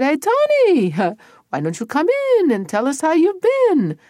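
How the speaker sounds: high, loud hearty hail; sing-out greeting with a chuckle; innkeeper calling out. Acted. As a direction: call him in with false friendliness. Innkeeper calls to passing Tony.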